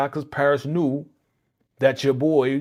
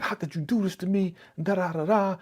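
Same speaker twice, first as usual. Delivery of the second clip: mock upset; 8 semitones higher than usual. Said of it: "She all mad".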